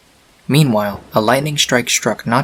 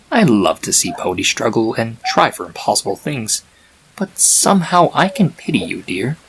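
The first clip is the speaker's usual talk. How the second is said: a hint of a sly chaos spirit, softened; lightly voiced Discord. Discord cooing to the foal, lightly voiced and sly. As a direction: tease gently, half pitying.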